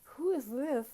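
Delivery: high, loud questioning call; a retold startled "who is this". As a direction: ask who's there, caught off guard. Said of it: "I said".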